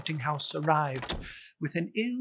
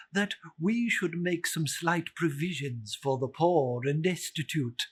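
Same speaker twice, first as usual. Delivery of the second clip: portly gentleman. Acted. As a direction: play the cheerful charity collector, bowing. Gentleman voiced in story.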